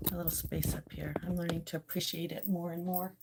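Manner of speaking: soft whispered aside; quiet whisper about her spot. Real, not acted. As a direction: breathe it fondly.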